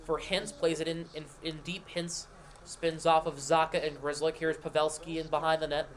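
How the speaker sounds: brisk hockey play-by-play call; live play-by-play. Acted. Streamer sets up the Bruins game for chat in live play-by-play. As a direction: call the action as it happens.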